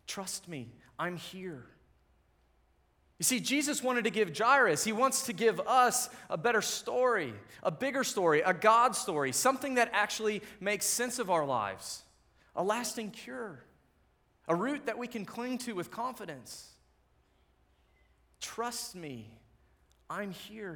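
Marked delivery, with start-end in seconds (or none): 0.1-1.6 softer, gentle Jesus reassuring a father; soft reassurance. Acted. Jesus softly reassuring a frightened father, gentle. 3.2-15.2 louder, higher preaching build. Real, not acted. Pastor urging the congregation toward a bigger story, preaching. Preacher rising to full force. 18.4-20.7 softer, quietly tender promise; soft reassurance. Acted. Jesus softly repeating his promise to us, tender. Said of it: "he says".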